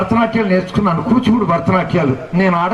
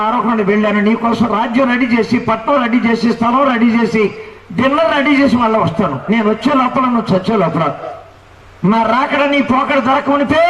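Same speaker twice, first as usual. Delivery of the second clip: raised, calling divine voice, earnest but lightly voiced; preacher retelling the Lord's call, a touch higher; 3 semitones higher than usual. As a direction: speak as God calling the young man to repent. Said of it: "ప్రభు నాతో మాట్లాడు".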